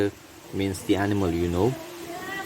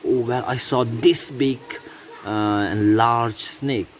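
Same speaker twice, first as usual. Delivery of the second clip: mock exaggerating; slower than usual. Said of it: "I will like".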